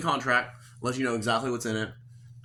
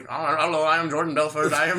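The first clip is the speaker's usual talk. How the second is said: mock Indian accent; 2 semitones higher, 4 dB louder than usual. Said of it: "it was an Indian dude".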